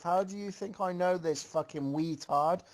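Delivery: high, mildly heated insult; a light pretend snap at a friend; mock yell. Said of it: "Twidos yelled out".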